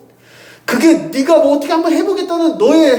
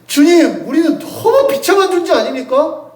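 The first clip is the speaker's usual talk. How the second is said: higher, half-laughing plea of misery; mock despairing cry; 6 semitones higher than usual. Preacher voicing a believer crying out to the Lord, half-laughing lament. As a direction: act out a believer's desperate complaint with a laugh. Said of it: "이렇게 외치는 우리한테".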